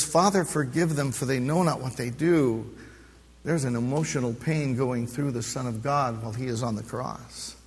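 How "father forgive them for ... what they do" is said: soft, tender plea at normal pitch; quiet gentle prayer. Acted. Preacher voicing Jesus forgiving the crowd, soft tender prayer. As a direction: say it gently, almost to himself. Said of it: "And he says".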